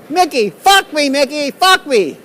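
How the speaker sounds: loud high slow begging; mock pleading. Vlogger pleads with Mickey in a loud, high, slow mock beg. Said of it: "I'll say".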